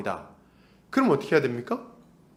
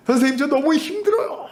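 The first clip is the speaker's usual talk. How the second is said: high, loudish imitation of a crying pupil; hammed-up tearful complaint; mock tearful wail; 11 semitones higher, 4 dB louder than usual. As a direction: whine it through pretend sobs. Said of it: "막 우는 거예요".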